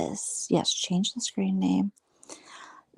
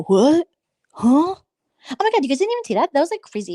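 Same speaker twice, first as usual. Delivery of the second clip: mock shocked viewer; 8 semitones higher, 4 dB louder than usual. Mocking viewers who missed drama.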